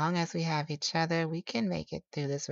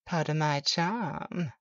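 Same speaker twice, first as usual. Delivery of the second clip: playful laugh; slower than usual. Acted. Teasing after a laugh.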